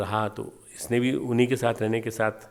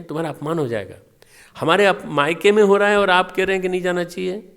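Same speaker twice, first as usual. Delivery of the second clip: raised, louder, insistent pleading; voicing Shiva forbidding; 3 semitones higher, 7 dB louder than usual. Shiva forbids Sati to go, loud and pleading. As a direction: Shiva talks Sati out of going, loud and earnest. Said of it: "Shiv जी ने मना किया".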